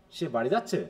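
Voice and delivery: low start, tune swinging up on যাচ্ছে; question intonation. Shown as a demonstration. Teacher testing students with the other version, question tune on যাচ্ছে. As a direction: make যাচ্ছে ask the question. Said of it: "এখানে কি প্রশ্ন আছে?".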